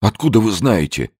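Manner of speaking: frightened businessman. A narrator's reading. Zeldin's frightened voice.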